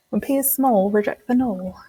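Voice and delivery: mock British accent on the rhyme; bad British accent. Shown as a demonstration. Teacher doing a bad British accent for the class rhyme. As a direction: stretch small and null so they rhyme, British style. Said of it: "if you say it in kind of a British, British accent".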